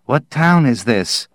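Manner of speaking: mild shout. Acted. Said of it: "Barton shouted".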